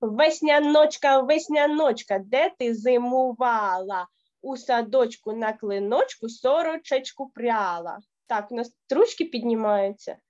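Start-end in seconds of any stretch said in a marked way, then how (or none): 0.0-8.0 rhythmic recitation. Shown as a demonstration. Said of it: "Давайте ще разочок разом зі мною".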